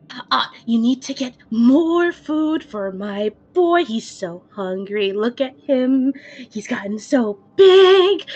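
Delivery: a hint of the doting giant again; lightly voiced fawning master, slow; same booming voice. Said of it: "hear that same voice again".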